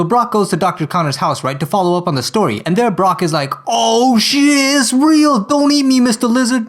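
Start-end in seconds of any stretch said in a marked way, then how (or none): 3.7-6.7 high, loud, panicked cry; mock terror. Brock cries out in hammed-up fear of the lizard. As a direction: shriek in comic fright.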